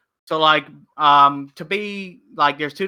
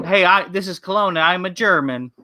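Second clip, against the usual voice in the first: mock French accent; 3 semitones higher than usual. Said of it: "and the Frenchman said".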